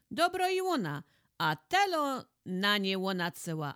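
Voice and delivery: husband's angry retort; heated retort. Acted. Husband blames wife heatedly.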